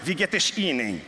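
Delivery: put-on German greeting in a carioca accent, "es" said "esh"; "Wie geht es Ihnen?" with a hushing carioca sh on "es". Rio newcomer greeting the speaker, light carioca accent. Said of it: "esse é carioca".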